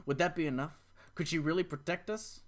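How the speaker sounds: unvoiced whisper of worry; whispered doubt. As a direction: breathe the question to yourself. Doubtful inner question.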